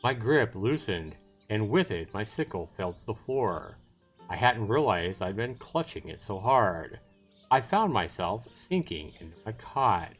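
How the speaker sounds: measured reading with dramatic pauses; story narration. Acted. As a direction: narrate it deliberately, phrase by phrase. Reads the story narration aloud.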